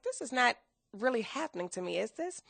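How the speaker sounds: soft, rising into a whispered question; a quiet, dazed plea; stunned disbelief. Retold or imitated. Devastated after being fired.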